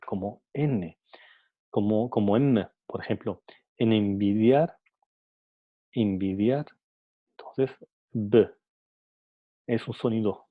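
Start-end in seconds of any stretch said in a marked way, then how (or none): 3.8-4.8 "envidiar" said as "embidiar", the n turned into m before the b; pronunciación de envidiar. Shown as a demonstration. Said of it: "al pronunciar envidiar". 5.9-6.6 "envidiar" said again as "imbidiar", lips closing on the nasal before the b; pronunciación de envidiar. Shown as a demonstration. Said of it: "al pronunciar envidiar".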